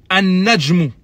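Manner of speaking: An-najmu with a doubled n and no lam; assimilated pronunciation. Shown as a demonstration. Teacher repeats the right An-najmu. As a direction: say An-najmu, the n held. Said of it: "ne se prononce pas".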